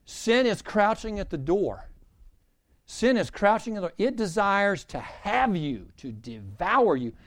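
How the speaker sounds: preacher voicing God's warning; emphatic warning. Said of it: "I'm warning you".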